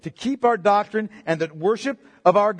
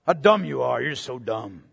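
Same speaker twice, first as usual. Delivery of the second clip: mocking scoffers; 9 semitones lower than usual. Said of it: "talk about how Neanderthal Christians are".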